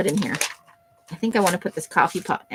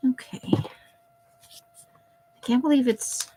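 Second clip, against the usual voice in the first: whispering; 5 semitones higher, much slower than usual. Real, not acted. Unvoiced slow aside.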